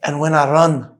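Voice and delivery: put-on Scottish accent. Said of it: "I have to do it in the Scottish accent".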